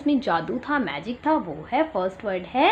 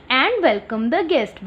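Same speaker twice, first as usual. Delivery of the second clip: very slow and clear; slow read-aloud; much slower than usual. Shown as a demonstration. Teacher reading the rule aloud to the class, slow. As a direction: read it out slowly for children. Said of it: "teacher reads rule slowly".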